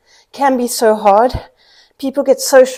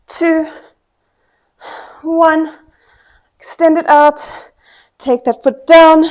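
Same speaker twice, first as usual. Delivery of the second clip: loud, pushing, higher-pitched coach calls; loud coaching cues; 4 semitones higher, 7 dB louder than usual. Real, not acted. Instructor urging her class to hold the leg, loud coaching calls. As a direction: drive them through the last reps.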